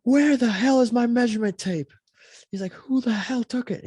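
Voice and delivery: hammed-up frantic teacher yell; teacher freaking out. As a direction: shout like a panicked teacher. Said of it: "the teacher starts freaking out".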